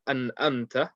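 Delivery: "an amta" with both words on plain alif onsets; ain read as alif. Shown as a demonstration. Teacher shows a common misreading, ain as alif. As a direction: drop the throat sound from "amta". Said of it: "people read the ain as an alif".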